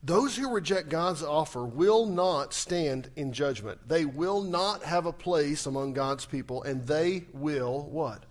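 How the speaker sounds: slow, deliberate, each word weighed; solemn slow pronouncement; slow emphatic preaching. Acted. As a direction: lay down the warning slowly.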